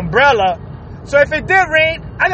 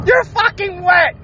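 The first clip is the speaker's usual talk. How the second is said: exasperated yell; 6 semitones higher than usual. Real, not acted. Vlogger ranting at swimmers who flee the rain, exasperated yell. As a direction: yell it like it's obvious. Repeats the rant.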